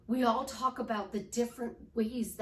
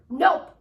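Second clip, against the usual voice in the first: "Nope" punched much louder and higher; exclamation point on NOPE; 5 semitones higher, 12 dB louder than usual. Shown as a demonstration. Coach demonstrating a pattern interrupt, emphatic "Nope". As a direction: hit "Nope" hard, pitch jumping up. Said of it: "exclamation point down on that word".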